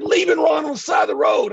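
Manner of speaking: high, exasperated mock yell; indignant outburst in a retold row; retold accusation. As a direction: spell out the offence, acting out outrage. Retold argument, accusing the driver.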